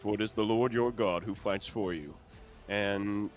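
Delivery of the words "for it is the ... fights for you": cleric proclamation. Acted. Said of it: "I say".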